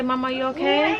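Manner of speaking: high sing-song prompt; prompting child. Shown as a demonstration. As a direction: say it for the toddler to copy. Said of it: "Journey, say".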